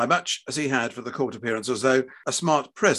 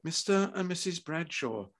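soft but higher-pitched doctor; quiet interruption; 6 semitones higher, 8 dB quieter than usual. A narrator's reading. Surgeon interrupting quarrelling parents, quiet. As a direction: cut in gently, voice down. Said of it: "the doctor cut in quietly".

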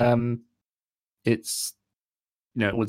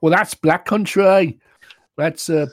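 mock Black Country; 8 semitones higher, 6 dB louder, slower than usual.

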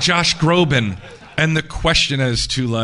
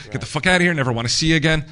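higher, half-hearted retold yell at the boyfriend; mild mock yell; 4 semitones higher, much faster than usual. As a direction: imitate the sister chasing him out, a bit raised. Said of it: "yelling at him".

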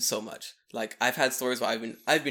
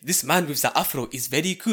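exaggerated imitation of a Japanese accent; mock Japanese accent; 2 semitones higher, 6 dB louder than usual. Man mimicking the gossipers talking about his afro, mock Japanese accent. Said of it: "do Japanese voice".

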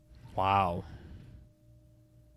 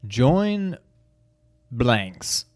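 movie trailer read; slower than usual. Acted. Reads game box blurb.

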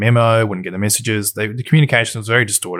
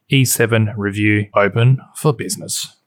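slowed-down, announcer-style read; radio announcer voice. Shown as a demonstration. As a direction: present it like a radio host. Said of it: "put on the radio announcer voice".

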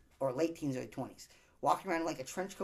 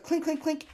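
imitated bottle clink; 10 semitones higher, 6 dB louder than usual. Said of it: "it was like".

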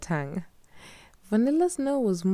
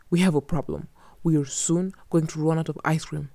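lightly voiced man; 3 dB louder than usual. Nukilik warns.

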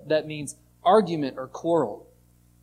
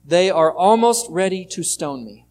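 louder, pleading cry for help; crying out worried; 6 dB louder than usual. Retold or imitated. Moses crying out to God, loud and worried. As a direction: call out to God in alarm. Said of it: "Moses cries out to God".

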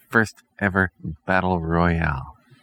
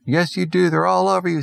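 crazed space psycho; 12 semitones higher than usual. Acted. Crazed psycho accusing coworker.

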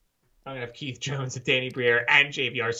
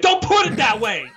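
laughing protest; 10 semitones higher, 8 dB louder than usual. Retold or imitated. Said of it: "I'm like".

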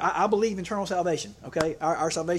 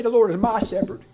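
raised, ringing declaration of the verse; proclaiming the verse; 4 semitones higher, 7 dB louder than usual. Retold or imitated. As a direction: proclaim it louder, like a confession of faith. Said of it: "I like the way McGee says it".

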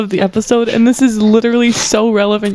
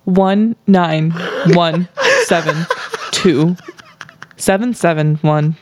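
conspiracy voice; 4 semitones lower than usual. Acted. Co-host parodying numerology to friends, low conspiracy voice. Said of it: "slipped into the conspiracy voice".

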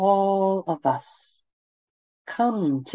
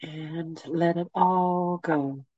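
guided meditation. Acted. Leads a meditation.

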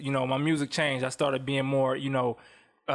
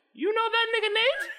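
high, put-on white girl voice. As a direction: chirp it like a white party girl. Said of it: "that's my white girl voice".

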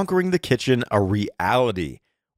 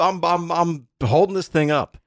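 huffy; 8 semitones higher than usual. Real, not acted. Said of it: "I'm in a mood tonight".

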